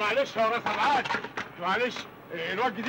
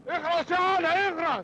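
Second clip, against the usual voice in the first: angry hush up; 6 semitones higher than usual. Acted. Uncle shuts up nephew.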